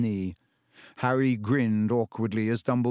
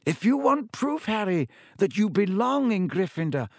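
put-on wise old headmaster; 8 semitones higher than usual. A narrator's reading. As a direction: land the lesson with weight. Headmaster offers proof.

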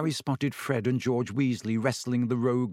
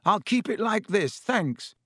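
higher, anxious refusal; wary refusal; 8 semitones higher than usual. A narrator's reading. Harry refusing Lockhart's fix, higher and wary. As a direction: keep him away, politely tense.

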